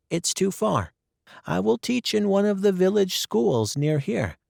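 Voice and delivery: put-on a bright young girl convincing her guardian; Anne's voice. Anne voiced in story.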